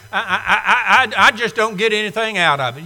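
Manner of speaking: hammed-up stutter, then rushed and fast; mock churchgoer stammering out the excuse; stammering mock whine. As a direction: mimic the excuse-maker tripping over the words. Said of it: "weary of hearing people say".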